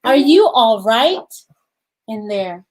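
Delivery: put-on gentle read-aloud for young children; storybook reading. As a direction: read the story to the class, unhurried. Teacher reads picture book aloud.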